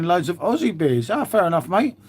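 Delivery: lilting put-on Australian accent; mock Aussie accent. Streamer joking about his beer order, mock Aussie accent. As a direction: slip into a playful Aussie accent. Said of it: "Where was that from?".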